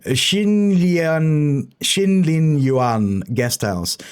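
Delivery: slow careful Xinlin Yuan with Chinese-like vowels; careful pinyin attempt. Real, not acted. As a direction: sound out Xinlin Yuan syllable by syllable. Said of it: "my pinyin is pretty bad".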